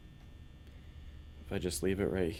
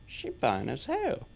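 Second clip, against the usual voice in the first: slow, higher leering voice; quoting a guy; 6 semitones higher, slower than usual. Retold or imitated. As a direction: drawl it like a creepy admirer. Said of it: "and saying".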